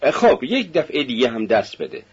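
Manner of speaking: light laugh through the words; a sister laughing as she gives in. Acted. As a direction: tease him with a small laugh.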